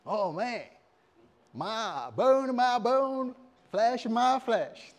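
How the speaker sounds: high, drawn-out cry of wonder; hammed-up amazement, stretched out; awestruck Adam. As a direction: play Adam marvelling at his new mate. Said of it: "and Adam was like".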